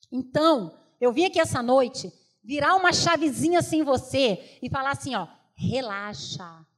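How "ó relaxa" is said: slow, soft and calm; soothing relaxa. Acted. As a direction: ease her worries gently. Reassuring a worried listener. (tranquilizando, devagar e baixinho)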